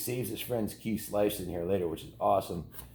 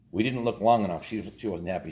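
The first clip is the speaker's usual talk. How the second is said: ordinary delivery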